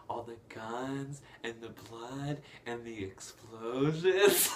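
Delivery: slow, savoured list swelling at the end; mock relish. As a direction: imitate gleeful coaxing, building. Retold LeFou coaxing with war memories.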